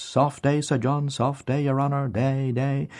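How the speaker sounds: a hint of a hearty country greeting; gruff squire greeting. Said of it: "A gruff squire on horseback".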